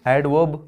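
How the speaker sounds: एडवर्ब as "ad-wub", no R; silent R. Shown as a demonstration. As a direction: drop the R in एडवर्ब. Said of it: "इसी तरह से ये भी है". (एडवर्ब में आर silent)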